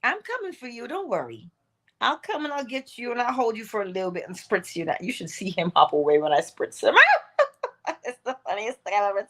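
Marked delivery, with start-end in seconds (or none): 0.0-4.8 cooing to a pet. Retold or imitated. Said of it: "talking to her pet".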